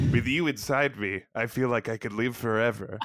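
lightly voiced starship captain, stifling a laugh; Sheridan voice. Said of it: "my Sheridan voice".

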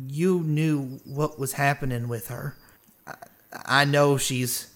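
halting, hesitant meek character; lightly voiced timid plea; meek Sarah. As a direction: feel your way through it with pauses. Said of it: "kinda meekly".

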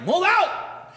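high mocking echo; mocking parents. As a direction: throw it back mockingly. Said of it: "they're like".

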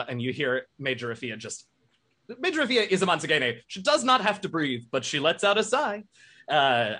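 a hint of a nervous, polite machine; Bertrand voice.

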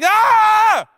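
shrill-free high yelp, loud and high; comic high-pitched shriek; high scream. Retold or imitated. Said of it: "I'm like".

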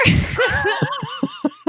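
helpless high laughter; loud high laugh. Real, not acted. Player giving up on the scene, loud laughter. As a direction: break down laughing.

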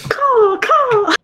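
high bird-like squawk; pterodactyl cry. Pretend. Claiming the pterodactyl position, high cawing cry. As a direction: screech it like a flying reptile. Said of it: "not what a pterodactyl sounds like".

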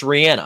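the singer's name with an "ann" middle, as in Anna; the name, middle vowel flat as in "can"; corrected pronunciation. Shown as a demonstration. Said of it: "it's actually pronounced Rihanna".

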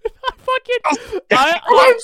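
words squeezed out through high, loud laughter; can barely speak for laughing; laughing hard. Real, not acted. Son cracking up at his mom's remark, high and loud laughing.

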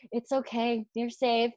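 imitating a soft, forced-smile comfort; reassuring. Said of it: "trying to smile to make her comfortable".

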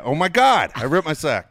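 loud, high cry of alarm, re-enacted; retold yell. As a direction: yell it as if reliving the shock. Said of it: "I think I heard you yell".

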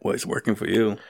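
talking while chewing; mouth full. Real, not acted. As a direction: speak around a bite of salad. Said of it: "you still got your mouth full?".

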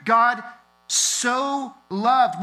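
God so "loved", heavy and slow; emphatic loved. Shown as a demonstration. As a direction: grip them with "loved". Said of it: "gripped by the statement of truth".

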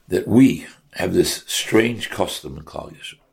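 "strange" stressed and set apart from the rest. Real, not acted. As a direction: lean on the word "strange". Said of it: "I stress the word strange".

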